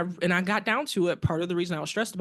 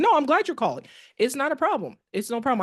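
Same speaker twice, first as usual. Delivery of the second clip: higher-pitched, lightly acted reassurance; retold reassurance; 7 semitones higher than usual. Daughter answering her apologetic mother, retold reassurance. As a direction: imitate yourself quickly putting someone at ease.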